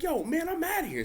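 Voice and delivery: high-pitched imitated bail-out; mock freak-out. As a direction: squeak it while running away. Announcers bolting from zombies.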